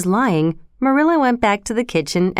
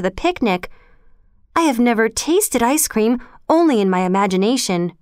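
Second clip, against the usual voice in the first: grateful, eager Anne; 3 semitones higher than usual. Acted. Anne thanks Marilla for the picnic, lightly gushing. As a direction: gush lightly with thanks and hope.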